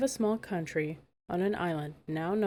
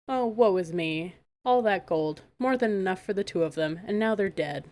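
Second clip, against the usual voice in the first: fake lament; 3 dB louder than usual. Megan fooling the troll, hammed-up fake grief.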